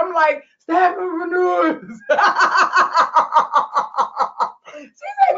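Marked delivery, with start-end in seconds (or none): 0.6-2.0 slurred, dreamy mumble of a sleeper; mock sleep-talk. Imitating herself talking in her sleep, mumbled. 2.1-4.5 long, rattling run of laughter; real laugh. Real, not acted. Laughing at her own sleep-talk.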